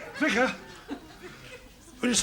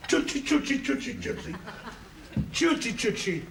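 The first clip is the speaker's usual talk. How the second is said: put-on baby talk; 4 semitones higher than usual. Coaxing a pet fish.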